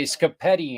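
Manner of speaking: "scapetti" said with an sk sound where "spaghetti" has sp; "scapetti", swapping the sp for sk like a toddler; child's mispronunciation. Shown as a demonstration. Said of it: "instead of spaghetti".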